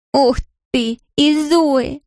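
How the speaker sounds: high, mocking fake delight; a touch of teenage sarcasm; sarcastic. A narrator's reading. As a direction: sneer at the name with false enthusiasm. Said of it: "с сарказмом откликнулась Мэри".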